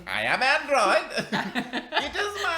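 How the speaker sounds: android voice. Pretend. Exaggerated laughing android imitation.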